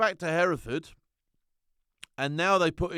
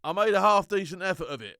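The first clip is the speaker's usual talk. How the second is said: ordinary talk, nothing marked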